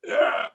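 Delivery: short "ugh" of mock overwhelm; freaked-out groan. Bandmate recalling hearing a famous guitarist is in the hallway, freaked-out groan. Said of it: "you know, freaking out".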